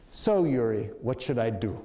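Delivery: low, tired and resigned; a hint of weary defeat. Chavez asks the mediator for advice, weary. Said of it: "in a kind of weary tone of voice".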